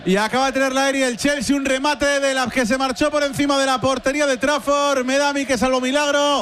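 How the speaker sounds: full-voiced, excited match call; live football play-by-play. Real, not acted. Commentator describing a Chelsea shot over the bar, live play-by-play. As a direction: call the near miss with urgency.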